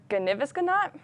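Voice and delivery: Gnivisganot said as Thanksgiving reversed, gniv-is-gan-ot; backwards speech. Shown as a demonstration. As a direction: sound out Gnivisganot syllable by syllable. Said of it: "how do you say Thanksgiving backwards?".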